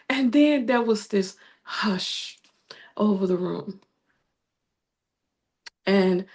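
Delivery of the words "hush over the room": hushed whisper. Real, not acted. Widow describing the room falling silent, whispered. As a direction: drop to a whisper for the hush.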